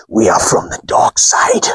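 low whispered villain voice; spooky dark side. Pretend. Teasing his viewers as a dark side villain, whispered. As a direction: menace them in a whisper.

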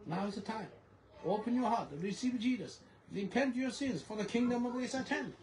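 earnest street-preacher call; preaching. Retold or imitated. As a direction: call the crowd to repent. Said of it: "I was preaching like this".

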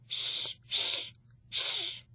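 breathy unvoiced shush. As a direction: hush the noisy crowd. Audience hushing in cinema.

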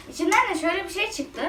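hollow, echoey sound, talking into a container; cave echo. Real, not acted. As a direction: voice echoing inside a box. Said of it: "Aa sesim yankılanıyor".

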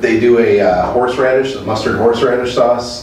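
speaking through fingers; slightly muffled by hand; hand over mouth. Real, not acted. Seen 0: Cap-wearer's fingers rest against his lips throughout the labelled words.

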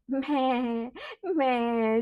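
drawn-out imitated goat bleat. Shown as a demonstration. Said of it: "What does a goat say?".

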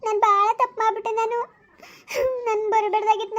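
crying as she speaks; tearful regret. Acted. Woman telling her lover she regrets coming, crying. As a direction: regret it through tears. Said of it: "ನೀನು ಅಳ್ಬೇಡ ನೀನು".

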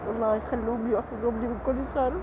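quiet weeping voice; tearful. Real, not acted. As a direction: let the tears come through the blessing. Tearful blessing for her children.

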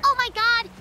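mock-terrified plea; panicked cry for help. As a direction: beg for your life, hammed-up. Villager attacks, cries for help.

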